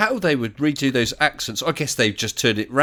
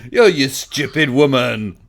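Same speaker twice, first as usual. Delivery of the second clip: sitcom catchphrase; 4 dB louder, slower than usual. Retold or imitated.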